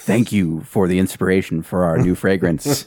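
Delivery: whispered perfume ad. Acted. Friend whispering a mock perfume ad. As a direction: breathe it like a fragrance commercial. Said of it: "mock perfume ad".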